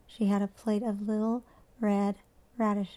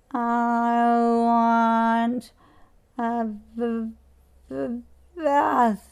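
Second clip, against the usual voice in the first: loud, blunt demand; plain demand; 6 dB louder, much slower than usual. A narrator's reading. Muddy girl insisting to her mother on a bath, loud and blunt. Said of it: "so plainly that it cracked the mud".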